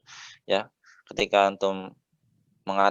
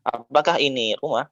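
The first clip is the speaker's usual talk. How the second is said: "Apakah ini rumah" raised with a rising end; question tune; 4 semitones higher than usual. Shown as a demonstration. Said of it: "hamzahnya itu juga hamzah istifham".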